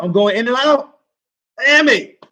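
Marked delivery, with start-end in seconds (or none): 1.6-2.3 frustrated curse. Real, not acted. Stream cutting in and out.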